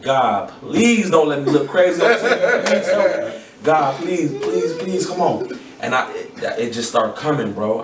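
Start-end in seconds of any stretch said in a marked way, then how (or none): 0.0-5.6 high, pleading, half-laughing prayer; frantic inner prayer. Retold or imitated. Battler praying in his head before the round, frantic plea. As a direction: beg God in a panic with a nervous laugh. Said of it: "in my head, I'm like".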